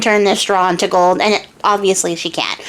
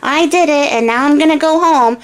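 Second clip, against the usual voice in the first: put-on chirpy girl; 7 semitones higher than usual. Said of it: "And she's like".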